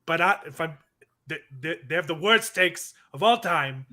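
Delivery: put-on Trump drifting into Boston accent; Boston-accented Trump attempt. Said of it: "I just went Boston".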